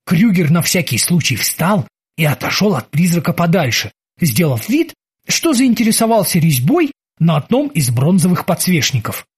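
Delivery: ordinary delivery, nothing marked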